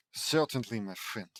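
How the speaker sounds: lightly attempted Russian accent; unsure, amateur Russian accent. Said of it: "in a Russian accent".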